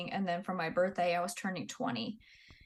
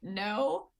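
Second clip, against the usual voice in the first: laughing gross; 2 semitones higher, 4 dB louder than usual. Real, not acted. Laughing as she tells a friend her answer to the XO. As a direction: giggle through the word.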